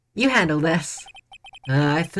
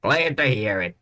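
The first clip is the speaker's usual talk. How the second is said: put-on Southern accent; 4 semitones lower than usual. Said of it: "He's so southern".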